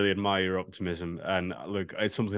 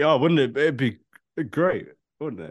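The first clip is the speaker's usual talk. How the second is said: put-on boozy drunk voice, pitched high; 5 semitones higher, 4 dB louder than usual. Imitating someone on an alcohol binge sending in a take: imitating a drunk fan. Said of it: "That was my impression".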